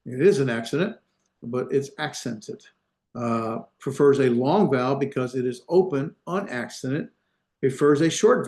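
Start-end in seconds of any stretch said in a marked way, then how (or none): 1.4-2.6 "accented" with a clear "sent" in the middle; careful pronunciation. Shown as a demonstration. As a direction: sound out "accented" so it isn't heard as "accident". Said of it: "not accident".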